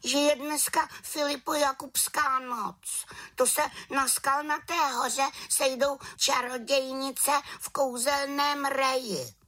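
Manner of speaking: put-on very high girlish little witch. A narrator's reading. Little witch admitting her slip, very high voice. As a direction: answer sheepishly as a young witch.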